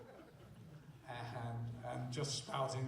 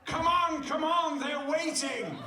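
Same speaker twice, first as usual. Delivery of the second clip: high, loud hurried urging; urgent loud call; 14 semitones higher, 10 dB louder than usual. Retold or imitated. Urging Henry's actor onto the stage, loud and high. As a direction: call him on, laughing at the end.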